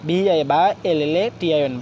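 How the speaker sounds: ভায়োলেশন spelled piece by piece; letters first, then the chunk they make; broken into syllables. Shown as a demonstration. Teacher going through a big word for learners, syllable by syllable. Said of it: "আমরা ভেঙে ভেঙে".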